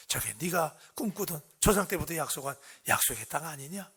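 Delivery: 조용히 타이르는 하나님 목소리; 소리를 낮춰 부드럽게 들려주듯; 다정한 하나님. Acted. 하나님이 모세에게 약속의 땅을 보임. (나직하고 다정하게)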